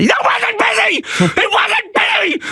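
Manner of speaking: very high, strained gangster scream; imitated explosion of rage. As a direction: explode into a mock screaming fit. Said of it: "he fucking explodes again".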